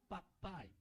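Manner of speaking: baixinho e mais grave; oração íntima. Acted. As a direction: fale com Deus como um filho íntimo. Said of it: "eu vi que ele tinha intimidade". (chamando o Pai com intimidade)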